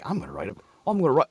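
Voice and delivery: mock Scottish that lands near Liverpool; attempted Scottish accent, slipping Liverpudlian. One guy announcing his poem, slipping Scottish-Liverpool accent. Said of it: "like, a fucking Beatles accent".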